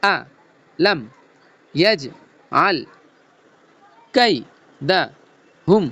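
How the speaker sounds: broken into separate syllables, a pause after each. Shown as a demonstration. Teacher breaking the verse into pieces for pupils, syllable by syllable. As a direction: spell it out one sound at a time. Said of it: "ভাঙ্গা ভাঙ্গা সুরে বলবো".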